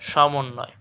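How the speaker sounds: সমন্বয় as "shomon-noy"; correct pronunciation. Shown as a demonstration. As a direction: start সমন্বয় on "sh", double the n. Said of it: "তালব্য স হয়ে যাচ্ছে". (সমন্বয়কে "শমোন্নয়" উচ্চারণ)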